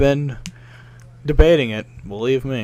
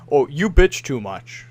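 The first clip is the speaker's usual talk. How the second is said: slow mock whiny complaint; whiny viewer; slower than usual. Imitating chat telling him he complains. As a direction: drag it out like a snide viewer.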